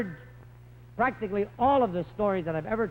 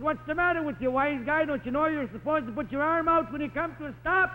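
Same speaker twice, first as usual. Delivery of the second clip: indignant; 8 semitones higher than usual. Retold or imitated. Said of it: "very indignant".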